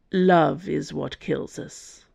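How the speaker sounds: slow, rough and heavy. Acted. Athos comforting the weeping Dana, slow rough voice. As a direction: let the words scrape out slowly. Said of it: "his voice rough".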